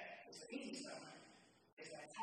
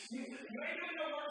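loud teasing; 7 semitones higher, 6 dB louder than usual. Acted. Playful loud teasing to church.

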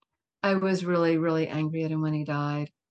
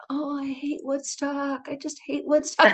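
exasperated; 7 semitones higher, 3 dB quieter than usual. Retold or imitated. Inner grumble about Woodstock psychics.

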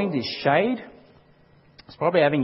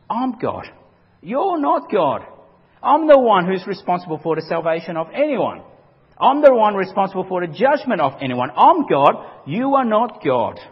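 God speaking firmly and louder, words slowed on "You're not God"; stern God; 2 semitones higher, 5 dB louder than usual. Acted. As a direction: declare it as God putting a prophet in his place. Preacher voices God rebuking Jonah.

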